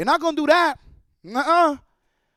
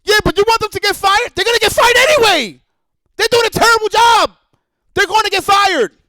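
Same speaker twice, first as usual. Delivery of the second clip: higher, louder mocking voice of critics; 7 semitones higher, 6 dB louder than usual. Streamer voicing his critics defending layoffs, mocking. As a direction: ham up the critics' objection. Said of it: "Giuna and everybody else is like".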